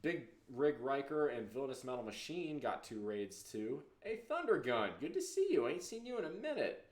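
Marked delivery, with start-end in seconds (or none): 4.0-6.9 excited greeting. Real, not acted. Greeting a returning chatter.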